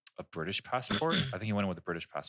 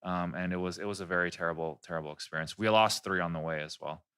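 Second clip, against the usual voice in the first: low, subdued, mournful deadpan; mock-tragic tall tale; 5 semitones lower than usual. Pranking strangers with a lost family story, mock-sorrowful. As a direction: tell it gravely, as if grieving.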